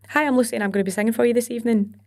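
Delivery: quick introduction in unsoftened Scottish accent; broad everyday Scottish. Shown as a demonstration. Singer introducing herself as at home, quick Scottish accent. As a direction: rattle it off in your own Scottish accent. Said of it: "It's not gonna cut it".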